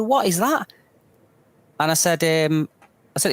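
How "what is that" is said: much higher-pitched imitation of a baffled man; mock astonishment, pitched way up; astonished question. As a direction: act out a stranger's startled question. Retelling stranger's shock at the cane.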